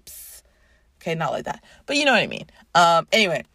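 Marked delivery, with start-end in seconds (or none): 0.1-0.4 spray noise. Retold or imitated. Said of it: "she s-, spits out, just like".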